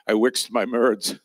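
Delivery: slow, laughing spoonerism; self-mocking "I wixed my merds"; laughing joke spoonerism. Real, not acted. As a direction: poke fun at your own slip while laughing. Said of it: "I wixed my merds".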